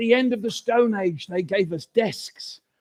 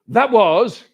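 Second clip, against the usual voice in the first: slow awed answer; 4 semitones higher, 4 dB louder, slower than usual. Acted. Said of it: "the other person said".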